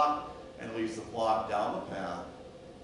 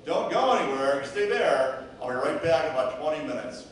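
raised voice, telling someone to stay put; acted firm instruction; 7 dB louder than usual. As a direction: give a loud, reassuring order before leaving. Shepherd tells sheep to stay put.

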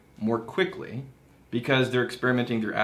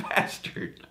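whispered insult; 6 dB quieter than usual. Real, not acted. Repeated joking insult.

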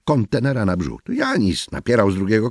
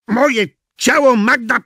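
higher, louder bellowed words; mock roar; 14 semitones higher, 6 dB louder than usual. Angry man roaring at smug coworker. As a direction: let the pressure out in a yell.

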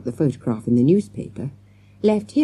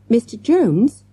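urgent questioning call, higher and louder; repeated plea; 6 semitones higher, 5 dB louder, slower than usual. A narrator's reading. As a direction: tug at him, asking again. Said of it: "Morgan repeated".

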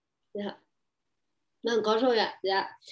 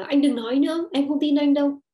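dismissive lover; 3 semitones higher, 6 dB louder than usual. Retold or imitated. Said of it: "người yêu mình nói là".

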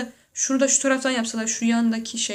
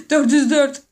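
"Dört yüz dört" louder, rising on "yüz"; exclaimed; 3 semitones higher, 8 dB louder than usual. Real, not acted. Exclaiming "Dört yüz dört" to viewers, louder with a rise on "yüz". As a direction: blurt "Dört yüz dört" out loud with a lift on "yüz". Repeats the number after laughing.

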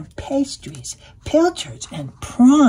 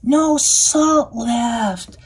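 slow drawn-out duck lament; a hint of a dismayed duck; lightly voiced duck wailing; quacking duck; 3 semitones higher, 4 dB louder, much slower than usual. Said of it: "quacked the duck".

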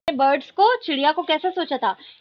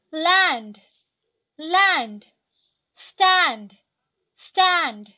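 word drill reading; much slower than usual. Shown as a demonstration. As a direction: read the list aloud for the class to repeat. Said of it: "मैं line by line ऐसे पढ़ते जाऊंगी".

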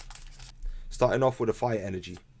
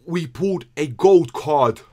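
slow, higher, louder triumphant call; excited announcement; 5 semitones higher, 10 dB louder, slower than usual. Real, not acted. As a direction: proclaim it to everyone, stunned. Announcing the gold card.

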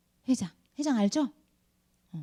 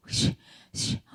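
hissy mock sobs, no voice; imitated crying; 3 dB quieter, much slower than usual. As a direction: imitate a child's sobbing in short breathy bursts. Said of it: "하면서 막 울더라고요". (흑흑 우는 아이 흉내)

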